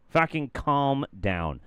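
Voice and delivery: normal talking voice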